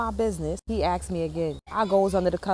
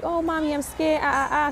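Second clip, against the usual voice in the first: put-on kid voice; 6 semitones higher than usual. Mocking scared kid voice.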